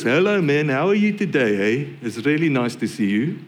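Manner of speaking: casual South African greeting accent. Shown as a demonstration. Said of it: "where their accents sound like this".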